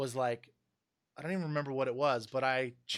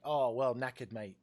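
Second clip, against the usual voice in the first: British knackered; 2 semitones lower than usual. Retold or imitated. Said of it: "That sounds cool".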